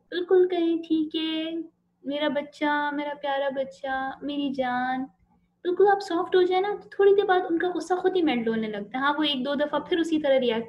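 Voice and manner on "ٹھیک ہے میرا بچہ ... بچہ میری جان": lightly voiced tender mother soothing a child; a hint of a mother cooing to her stubborn child; soft mother's voice. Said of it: "آپ اگر بالکل soft ہو جائیں". (ماں کا بچے کو پیار سے بہلانا، نرم لہجہ)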